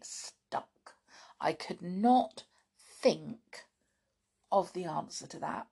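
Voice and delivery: breathy whispered confession; whispering. Real, not acted. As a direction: whisper it like a secret. Admitting she was stuck.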